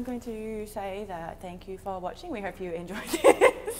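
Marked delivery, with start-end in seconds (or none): 1.4-3.8 slow, stiff robotic sign-off. Real, not acted. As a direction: read it like a robot. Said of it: "robot voice".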